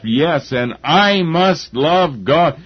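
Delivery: a hint of Jesus steeling himself to obey; resolute inner vow. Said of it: "he was saying to himself".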